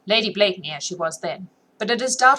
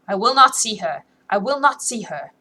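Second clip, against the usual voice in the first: mechanical repetition; 3 semitones higher, 5 dB louder than usual. Acted. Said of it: "She repeated mechanically".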